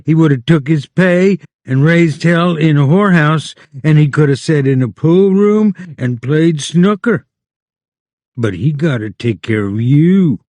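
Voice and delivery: lightly voiced aunt scolding Lenny; Aunt Clara. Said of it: "Lenny's imagined Aunt Clara scolding".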